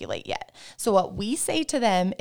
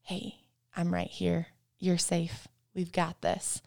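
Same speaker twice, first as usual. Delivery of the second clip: soft, steady reassurance; calm composure; 6 dB quieter, slower than usual. Retold or imitated. Jesus calming an anxious person in prayer, soft and steady. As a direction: settle them gently, close and quiet. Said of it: "he does that composure of".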